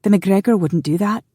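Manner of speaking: scandalised female voice; indignant. A narrator's reading. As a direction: object as the affronted heroine. Wife indignantly defends the meeting.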